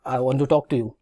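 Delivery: a normal, mild request to talk; polite request. Shown as a demonstration. Someone needing help asks to talk, mild request. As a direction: ask for a word calmly, slightly low. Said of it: "request कर रहे थे".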